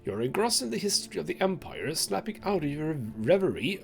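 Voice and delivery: measured dramatic storyteller reading; story narration. A narrator's reading. Game player reading the story aloud, dramatic narration. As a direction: read it out like a grim tale.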